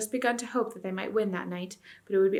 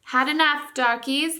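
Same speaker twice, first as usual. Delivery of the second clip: higher, louder jeering taunt; jeering yell; 7 semitones higher, 7 dB louder, slower than usual. A narrator's reading. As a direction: yell the taunt at the beaten enemy. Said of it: "they yelled".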